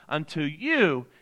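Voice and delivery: slow phrase with "you" held and lifted; stress on YOU. Shown as a demonstration. Pastor repeating the verse for listeners, stressing "you". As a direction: stretch the word "you" to single it out. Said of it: "I'm emphasizing you".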